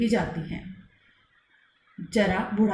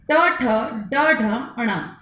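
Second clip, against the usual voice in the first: very slow, letter by letter; slow letter drill; much slower than usual. Shown as a demonstration. Teacher drills the retroflex letters very slowly. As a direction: spell out each sound slowly for pupils. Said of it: "इनको बोलते समय हमारी जो जीवा".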